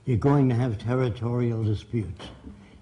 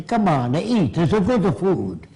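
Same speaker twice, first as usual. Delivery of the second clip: lively mock-Italian accent, slightly raised; lightly put-on Italian English; imitated Italian accent; 4 semitones higher than usual. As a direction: mimic an Italian urging someone to eat. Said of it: "if you're brought up in Italy".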